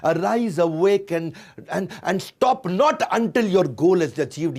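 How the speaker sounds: loud, slow English declamation; quotation declaimed. Shown as a demonstration. Reciting Vivekananda's words to the audience, loud and slow. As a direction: proclaim it like a motto.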